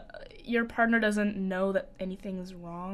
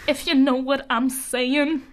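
slow, louder knowing drawl; suggestive tease; 3 semitones higher, 5 dB louder than usual. Acted. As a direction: lean into the innuendo, slowly. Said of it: "You're killing me here".

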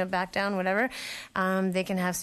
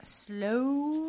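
breathy whispered echo of the word; whispering; 6 semitones higher than usual. Pretend. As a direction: whisper it slowly, drawn out. Echoing the slow down advice.

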